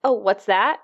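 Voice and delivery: high, slow coo to a pet. Real, not acted. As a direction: coo sweetly at the cat. Talking to the cat.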